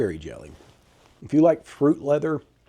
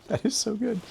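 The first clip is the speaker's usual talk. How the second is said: delighted; 10 semitones higher than usual. Real, not acted. Tasting again after laughing.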